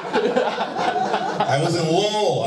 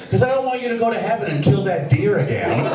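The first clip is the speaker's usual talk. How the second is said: little daughter; 3 semitones higher than usual. Retold or imitated. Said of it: "she's just like".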